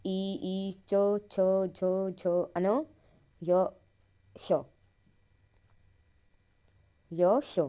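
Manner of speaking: each palatal letter sounded out slowly; sounding out the palatal letters for students; palatal sounds recited. Shown as a demonstration. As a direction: drill च, छ, झ, य, श one at a time. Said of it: "तालु से करते हैं".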